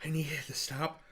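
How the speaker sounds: pained whisper begging for relief; whimpering through the burn; mouth burning from spicy food. Real, not acted. Mouth burning after super hots.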